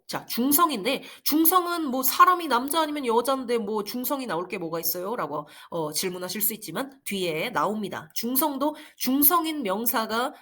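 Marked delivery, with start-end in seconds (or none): none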